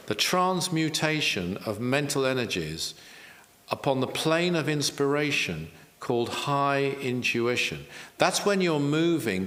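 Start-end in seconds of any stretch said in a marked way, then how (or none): 0.1-7.8 measured recital, pausing between phrases; deliberate, spaced-out repeat of a quotation; slowly and deliberately. Shown as a demonstration. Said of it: "so I'll say that slowly".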